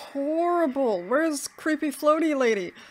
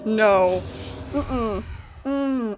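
normal talking voice

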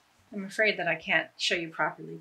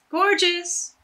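Gorgeous! jumps much higher and louder; delighted exclamation; 9 semitones higher, 5 dB louder than usual. Real, not acted. Admiring the tied scarf, excited high exclaim. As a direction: burst out with real delight.

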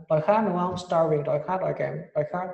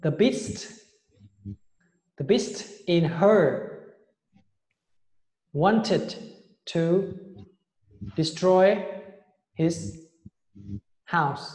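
model reading; much slower than usual. Shown as a demonstration. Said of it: "Đọc mẫu luôn".

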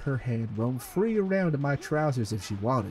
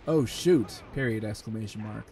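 straight face; 3 semitones lower than usual. Shown as a demonstration. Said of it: "try to read this with a straight face".

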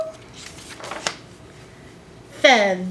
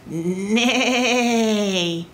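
horse neigh. Acted. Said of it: "When the horse went".

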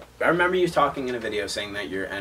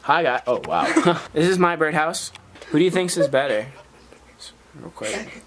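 louder, bubbly beauty guru voice; 6 semitones higher, 4 dB louder than usual. Acted. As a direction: hype it like a beauty YouTuber. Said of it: "like them beauty gurus".

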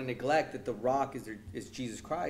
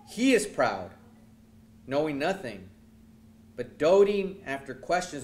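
forceful preaching; 2 semitones higher, 6 dB louder than usual. Acted. Same verse reread with force.

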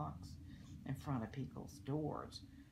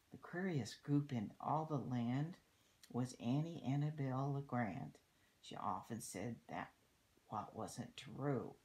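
put-on lilting story verse for children; read-aloud rhyme; 3 dB louder than usual. A narrator's reading. Reading a rhyme about littering to children, storybook read-aloud. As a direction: read the verse out clearly, in measured phrases. Reads a rhyming book aloud.

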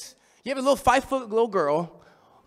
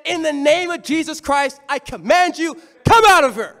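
retold command, rising to a louder come out of her; Paul commanding the spirit, building to a loud finish; acted exorcism command; 4 semitones higher, 4 dB louder than usual. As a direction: cast the demon out, loudest at the end. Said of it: "And he said".

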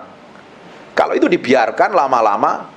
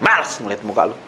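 sick of him; 7 semitones lower, 4 dB quieter, faster than usual. Acted. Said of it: "begitu ngelihat mukanya langsung lihat".

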